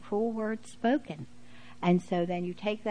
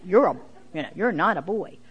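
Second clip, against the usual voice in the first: put-on adamant girl; 5 dB louder than usual. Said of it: "so strong about it and so adamant".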